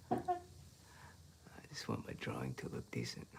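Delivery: low, slow whisper to yourself. Real, not acted. Painter frustrated, muttering to self.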